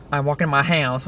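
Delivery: accidental weird accent on HOUSE. Real, not acted. Telling how they got home, in a weird accent. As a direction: slip into an odd accent on "house". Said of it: "That was a weird accent".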